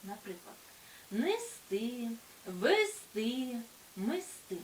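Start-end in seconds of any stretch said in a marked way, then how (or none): 1.1-4.6 нести, вести, мести with stressed final ТИ; stress on last syllable. Shown as a demonstration. Teacher listing verbs, нести, вести, мести each stressed on final ТИ. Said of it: "наголос на останньому складі".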